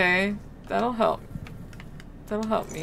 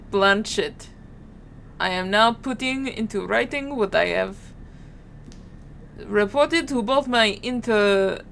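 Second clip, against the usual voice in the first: put-on amateur French accent slipping into Russian; French accent turning Russian. Player reading a sergeant's report, French accent turning Russian. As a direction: attempt French, drift toward a Russian accent. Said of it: "I devolved into Russian".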